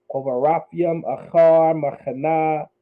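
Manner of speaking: Achar and Machana said slowly with throaty ch; slow it down and scrape the ch; slow careful Cha. Shown as a demonstration. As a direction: enunciate each letter slowly. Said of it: "You hear that Cha?".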